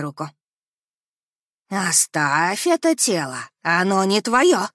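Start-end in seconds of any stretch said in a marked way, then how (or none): 1.7-4.7 ghost voice. Acted. Ghost commands her to leave.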